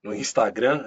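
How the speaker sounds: "Instagram" in a Brazilian Portuguese accent. Real, not acted. Guest toying with network names, Brazilian accent. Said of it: "a gente começa a pegar sotaques".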